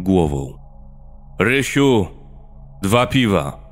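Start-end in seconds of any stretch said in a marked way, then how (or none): 1.4-3.6 higher-pitched call to the barman. A narrator's reading. Lekowski orders two beers from Rysiu, calling out. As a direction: call the order over to the bar.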